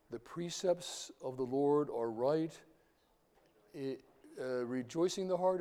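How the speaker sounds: measured psalm line recalled from memory; scripture recitation. Acted. Lecturer recalling the next Psalm line, measured recitation. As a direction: recite deliberately, feeling for the next phrase.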